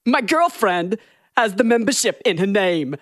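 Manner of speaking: Christopher Walken drifting into Bernie Sanders; Walken turning Bernie. Retold or imitated. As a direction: start as Walken, slide into Bernie. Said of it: "Is that Bernie Sanders or Christopher Walken?".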